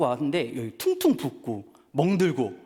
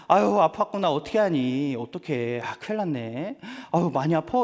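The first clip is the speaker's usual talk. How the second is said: comforting. Retold or imitated. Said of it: "위로해줬죠".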